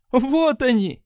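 high, loud shout. Acted. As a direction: cry out as they appear. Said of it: "закричала Мраскова". (Мраскова кричит, увидев пришельцев, громко)

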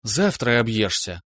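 ominous promise. Acted. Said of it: "зловеще наобещала опытная Настя".

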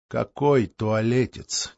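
slow, patient question; patient brother soothing the ill Grigory. Acted. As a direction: ask gently, like to a child. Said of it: "Терпеливо спросил брат".

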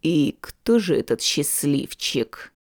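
slightly irritated. Acted. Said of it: "немного раздражённо спросил инквизитор".

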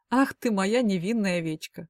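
медленно, с лёгким сарказмом; издевательски тянет ласку. Acted. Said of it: "отплатил он мне сарказмом". (Клим медленно и саркастично дразнит Полину)

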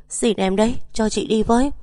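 wife begs to join the search, desperate; desperate plea. A narrator's reading. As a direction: beg her, almost breaking. Desperate begging.

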